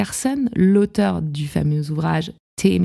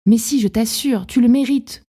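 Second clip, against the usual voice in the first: higher, insistent friendly reassurance; acted friend's earnest encouragement; encouraging friend; 4 semitones higher than usual. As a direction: reassure them like a supportive friend, lifting the pitch. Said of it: "la voix de cet ami qui dit".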